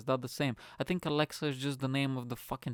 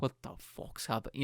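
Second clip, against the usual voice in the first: whispering; 5 dB quieter than usual. Retold or imitated. Stunned reaction, whispered.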